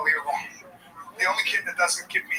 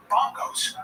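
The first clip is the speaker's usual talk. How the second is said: duh face. Retold or imitated. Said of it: "He goes".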